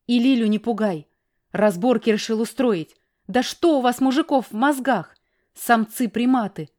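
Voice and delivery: put-on wife scolding the men in front of the child; through gritted teeth. A narrator's reading. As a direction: hiss the scorn at the men. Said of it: "добавила сквозь зубы".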